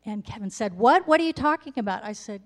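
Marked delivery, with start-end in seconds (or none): 0.7-2.0 incredulous. Retold or imitated. Kevin loudly baffled.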